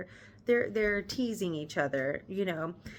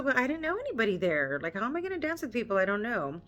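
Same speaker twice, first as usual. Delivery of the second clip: defensive Darcy; 2 semitones higher, faster than usual. Retold or imitated. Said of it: "So Darcy's like".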